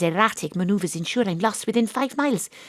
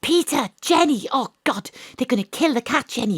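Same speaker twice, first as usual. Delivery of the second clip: urgent phone shout; 6 semitones higher than usual. Acted. Astrid begs her friends to save the cat, urgent phone shout. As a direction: plead down a failing line. Urgent call on a bad line.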